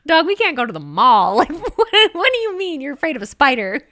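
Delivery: loud, giggling mock rant; laughing rant. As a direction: cackle through the mock scolding.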